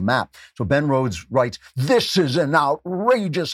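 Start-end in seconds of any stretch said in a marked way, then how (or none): 1.7-3.5 outraged voice. Shown as a demonstration. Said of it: "I have to do it in an outraged voice".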